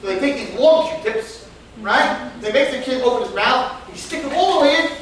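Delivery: can't hold back the laughs; real laughter through the story; laughing while telling. Real, not acted. Laughing at doctors.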